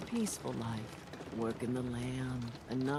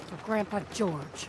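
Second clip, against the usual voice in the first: higher, louder toast to Grandpa George; rallying cry; 6 semitones higher, 4 dB louder than usual. Acted. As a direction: cheer it like a battle cry. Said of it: "That's the spirit".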